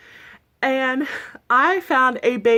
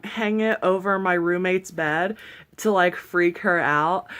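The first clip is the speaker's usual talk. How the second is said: usual speaking voice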